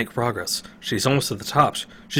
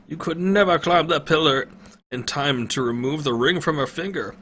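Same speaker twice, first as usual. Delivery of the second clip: put-on old man refusing to risk lives; resigned old wizard; 5 semitones higher than usual. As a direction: refuse any rescue. Pentagon voiced, resigned.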